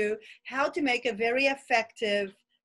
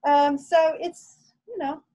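muffled behind a cloth mask; through a face mask. Real, not acted. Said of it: "I hope you can hear me talking through this mask".

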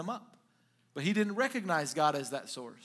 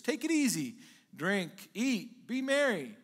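higher, lilting, spaced-out list; acted breezy contentment; carefree self-indulgence; 4 semitones higher, slower than usual. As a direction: play a self-satisfied man savouring each word. Rich man telling himself to relax.

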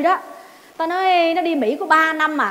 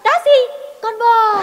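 high, loud fed-up reply; exasperated answer; 7 semitones higher, 4 dB louder, much slower than usual. Retold or imitated. Narrator answering Tèo about the cow, exasperated. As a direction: snap back, exasperated. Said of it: "Tôi tức quá tôi nói".

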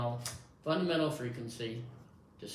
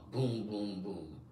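low booms like a drum; low drum imitation; 4 semitones lower, slower than usual. Shown as a demonstration. Showing test-taker the drum sound, low booming. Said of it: "a low tone, like a drum".

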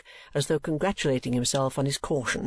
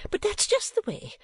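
high-pitched self-pitying complaint; high, peevish whimper; 10 semitones higher than usual. A narrator's reading. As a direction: whine it as an aggrieved mother. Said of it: "whimpered Missus Nickleby".

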